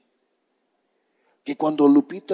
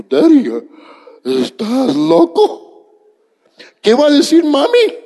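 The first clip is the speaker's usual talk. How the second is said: put-on high, loud panicked kid voice; alarmed child; 11 semitones higher, 8 dB louder than usual. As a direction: squeal like a shocked little boy. Son alarmed in retold story.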